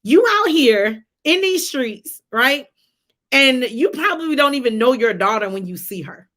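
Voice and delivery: hammed-up angry confrontation on campus; retold rage. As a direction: scold him like a daughter spitting mad. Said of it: "I have this whole fit of rage".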